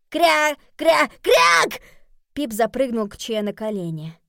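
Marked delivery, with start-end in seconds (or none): 0.1-1.8 shrill loud squawking quacks; loud duck quack. Acted. Pip protests quacking.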